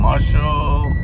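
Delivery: talking round Tic Tacs, mouth propped open; mouth full. Real, not acted. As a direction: say it with candy in your mouth. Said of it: "That's how you say it with the TikToks in my mouth".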